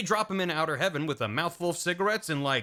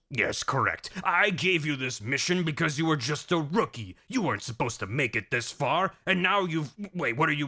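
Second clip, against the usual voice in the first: lightly voiced gloating commander; mock-villain speech breaking off; Big Boss villain. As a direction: explain the scheme with pomp, then falter.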